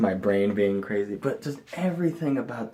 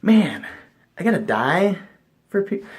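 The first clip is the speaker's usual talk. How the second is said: mock Jesus; 7 semitones higher, 4 dB louder than usual. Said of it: "Imagine being Jesus and being like".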